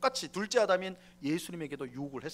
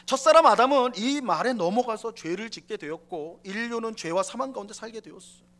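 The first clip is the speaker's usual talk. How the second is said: usual speaking voice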